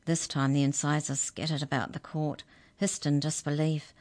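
plain reading voice

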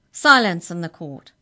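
loud roar opening on SILENCE; roared order. A narrator's reading. Clerk quelling whispering prisoners, roared order. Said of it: "roared the clerk".

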